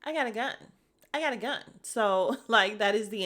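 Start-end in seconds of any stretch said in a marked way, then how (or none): 0.0-0.5 mock threat. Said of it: "my answer to everything now". 1.1-1.6 repeating it higher, with a smirk; the same line pitched up for a laugh; mock threat, higher. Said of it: "my answer to everything now".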